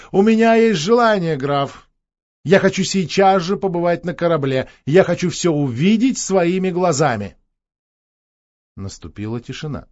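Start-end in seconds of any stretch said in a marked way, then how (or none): 0.1-7.4 princess raises her voice, higher and louder; loud announcement. Acted. Princess loudly announcing to the count she wants to board. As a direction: call out her wish boldly to the count. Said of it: "вдруг громко обратилась к графу".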